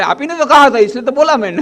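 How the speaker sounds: put-on high, loud, wide-eyed child protest; a child hurt at being scolded for obeying; innocent child. Child replies innocently to father. (मासूम बच्चे की ऊँची, ज़ोरदार आवाज़)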